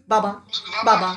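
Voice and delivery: quick run-together বাবা, repeated; said fast. Shown as a demonstration. Teacher asking if students find any syllables, said fast. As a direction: rattle off বাবা without a gap. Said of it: "আরে স্পিডে বল".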